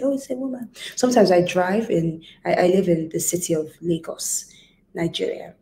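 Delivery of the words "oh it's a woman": higher-pitched mock of a naysayer; mimicked dismissive remark. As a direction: imitate someone remarking on a woman, pitched up. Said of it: "It annoys me personally".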